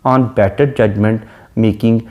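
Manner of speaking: each word drawn out slowly; slow poem recitation. Shown as a demonstration. Teacher reads a sonnet line to the class, slow and solemn.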